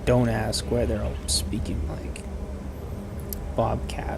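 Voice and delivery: conspiratorial whisper. Real, not acted. Streamer whispering a silly secret aside to viewers.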